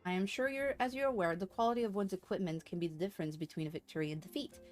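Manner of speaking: brisk, measured story reading; formal quest-giver reading. Acted. Streamer voices a quest giver explaining materia, formal read-aloud. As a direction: read it as formal game dialogue. Reads game character's dialogue aloud.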